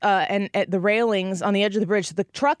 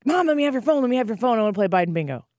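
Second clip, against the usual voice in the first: put-on bombarding kids; faster than usual. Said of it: "I'm getting bombarded".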